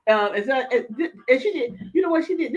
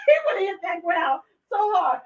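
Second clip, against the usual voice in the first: laughing through words; 5 semitones higher than usual. Real, not acted. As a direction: laugh while saying it.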